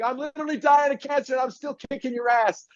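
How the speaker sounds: mock trash talk. Retold trash talk at hockey.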